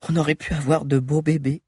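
lightly voiced girl's last loving words; understated murmur. A narrator's reading. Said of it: "murmura Sabi en admirant une dernière fois".

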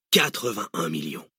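drawn-out, falling repeat of the figure; confident villain confirming the answer; relishing confirmation. Acted. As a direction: savour the sum with satisfaction.

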